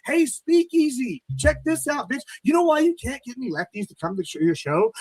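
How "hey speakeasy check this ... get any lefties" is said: taunting callout. Real, not acted. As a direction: draw it out to mock him. Calling out rival host.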